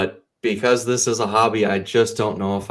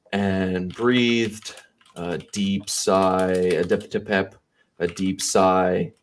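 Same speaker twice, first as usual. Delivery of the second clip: slow, drawn-out words with pauses; dictating while typing; much slower than usual. Shown as a demonstration. Author typing live for stream viewers, slow dictation. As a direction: spell out the story at typing speed.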